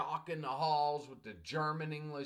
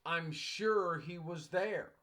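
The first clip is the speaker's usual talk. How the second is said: correct sentence, slowly; 3 semitones higher, slower than usual. Shown as a demonstration. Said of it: "I knew it was supposed to be".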